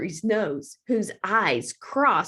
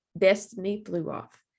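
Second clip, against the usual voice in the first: usual speaking voice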